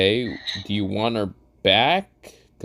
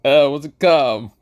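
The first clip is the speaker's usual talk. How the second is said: Gojo voice; 6 semitones higher, 4 dB louder than usual. Acted. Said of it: "Gojo says".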